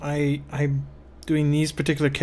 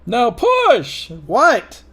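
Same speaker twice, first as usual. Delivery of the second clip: loud, higher, urgent mock coaching; mock birth coach; 8 semitones higher, 6 dB louder, much slower than usual. Joking that drawing is childbirth, mock urging. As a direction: urge it on like a delivery-room coach.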